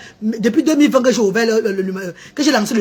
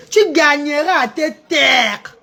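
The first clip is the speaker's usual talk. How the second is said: mock quote; 2 semitones higher, slower than usual. Mocking a commenter's phrase.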